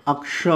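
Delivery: अक्ष with a clear अ before the k-sh. Shown as a demonstration. Teacher shows how learners say it, common pronunciation. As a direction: say अक्ष with its leading vowel. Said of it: "अक्ष इस तरह से बोलते हैं".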